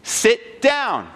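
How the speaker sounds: high mock yell at moderate volume; retold coach's yell. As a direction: imitate a coach firmly ordering a player down. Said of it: "the coach yells at him again".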